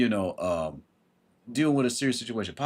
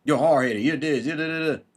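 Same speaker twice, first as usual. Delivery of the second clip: a raised mock parent scolding; 4 semitones higher, 4 dB louder than usual. Mocking a parent who calls their kid hard-headed. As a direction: fling the insults like a nagging parent. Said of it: "You're not moved by it".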